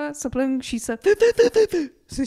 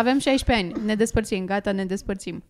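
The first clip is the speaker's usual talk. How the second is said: put-on teen breakup reenactment. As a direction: toss off the split like a bored sixteen-year-old. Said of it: "A reenactment".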